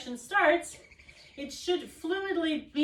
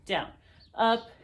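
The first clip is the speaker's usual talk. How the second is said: drill cue; 3 semitones lower, 4 dB louder than usual. Shown as a demonstration. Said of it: "on this diagonal".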